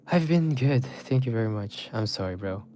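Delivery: breathless, panting between words; out of breath. Real, not acted. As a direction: talk while catching breath. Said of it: "I am out of breath".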